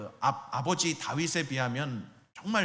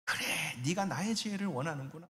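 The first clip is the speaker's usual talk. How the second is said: tender approval; 7 dB quieter than usual. Pretend. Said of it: "더 기뻐하셔요".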